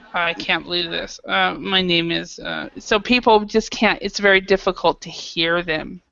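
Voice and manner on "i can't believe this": muttered under breath, lower and quieter. Showing students how muttering sounds: muttering under breath. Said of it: "talking kind of under your breath".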